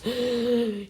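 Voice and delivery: high intake of breath; big acted gasp; sharp gasp before a yell. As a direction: gasp in hard. Sasuke gasps before yelling.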